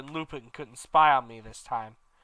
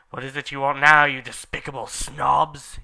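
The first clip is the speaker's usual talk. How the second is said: louder, irritated snap; angry question; 6 dB louder than usual. Acted. Dumbledore angrily asking what the students want. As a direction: bite out the insult. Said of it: "he asked angrily".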